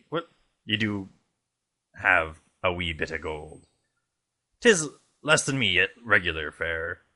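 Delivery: lightly voiced slow pirate captain. Friend reads the captain's reply in a pirate voice, lightly voiced. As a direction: drawl the offer like an old sea dog. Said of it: "I'll let you read this one".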